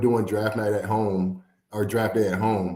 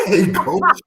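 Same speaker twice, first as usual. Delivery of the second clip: much higher and louder, slow and drawn out; hyped greeting; 10 semitones higher, 7 dB louder, much slower than usual. Retold or imitated. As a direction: answer the coach's call all fired up. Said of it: "I'm hyped".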